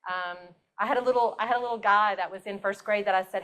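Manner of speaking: ordinary delivery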